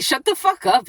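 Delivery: retold angry outburst. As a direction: act out snapping at someone. Retells snapping at the man.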